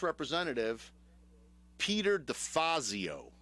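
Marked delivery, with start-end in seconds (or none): 1.8-3.3 Peter DeFazio said slowly with a Chicago accent, a higher pitch. Real, not acted. Radio host saying the congressman's name, Chicago accent slipping out. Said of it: "makes my Chicago accent just come out".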